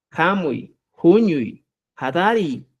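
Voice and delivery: "Jamui, Juñuy, Hadari" each begun on a Spanish J; H como jota. Shown as a demonstration. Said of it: "Se utiliza como la J". ("Jamui, Juñuy, Hadari" con jota inicial)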